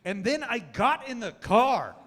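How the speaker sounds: a wife cracking up while explaining; mock high wife voice through laughter; laughing wife. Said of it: "And she was like".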